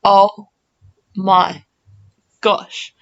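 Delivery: breathy, halting oh my gosh; stunned, fading to a breath; stunned gasp. Retold or imitated. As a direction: let the realisation sink in word by word. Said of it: "you just go".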